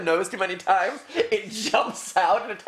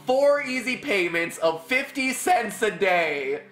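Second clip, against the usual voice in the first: home shopping host; 2 semitones higher, slower than usual. Pretend. Mock infomercial pitch.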